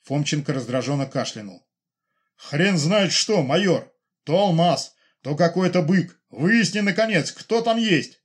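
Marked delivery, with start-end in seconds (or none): 2.4-8.2 a touch of an angry general; irritated scolding. Acted. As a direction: snap at the major, fed up. General angrily scolding major. (раздражённый генерал отчитывает майора)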